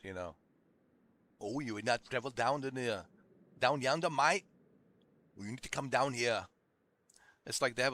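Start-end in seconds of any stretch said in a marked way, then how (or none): 1.4-6.5 mock country Aussie; outback Australian accent. Mock local inviting a traveler down, outback Australian accent. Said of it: "country outback Australians".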